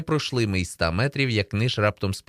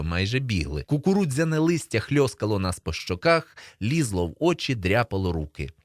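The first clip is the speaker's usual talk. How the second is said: plain reading voice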